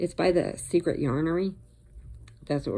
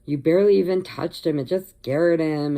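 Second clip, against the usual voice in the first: exasperated daughter; 5 dB louder than usual. Retold or imitated. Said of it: "she's like".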